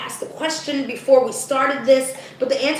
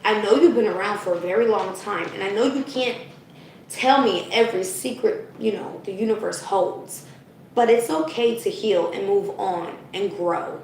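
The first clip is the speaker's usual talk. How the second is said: gentle; 3 semitones lower than usual. Retold or imitated. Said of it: "talk to it and say".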